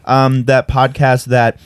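slow words around a bite; mouth full. Real, not acted. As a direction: still chewing the bagel. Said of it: "I'm eating a bagel".

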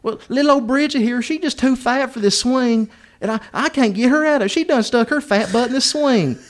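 high-pitched imitation of a country mother; hillbilly woman. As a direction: complain helplessly in a mock woman's voice. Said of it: "She's like".

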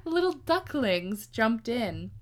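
"ducklings" said slowly and carefully, clear k after "duc"; slow, deliberate "Little ducklings"; careful correction. Shown as a demonstration. Teller fixing her "dunklings" slip, slowly and carefully. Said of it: "Little dunklings".

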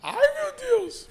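high, drawn-out "ai, meu Deus"; exasperated sigh. Real, not acted. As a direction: stretch it out high in mock dismay. Reacting to the beer can.

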